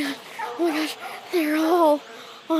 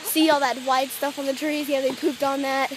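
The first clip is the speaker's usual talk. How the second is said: softer hushed narration while hiding; 5 semitones lower, 8 dB quieter than usual. Real, not acted. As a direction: keep it low so the birds don't notice. Hiding under trees, hushed.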